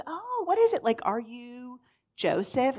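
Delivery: lightly voiced mom, pitch jumps up at the start; curious mom. Voicing the curious mom in story.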